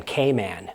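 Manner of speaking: Cayman said kay-MAN, quiet and falling; stress on man. Shown as a demonstration. Repeating the local form for the viewers. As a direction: lean on the second syllable of Cayman. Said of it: "their emphasis being on the word man".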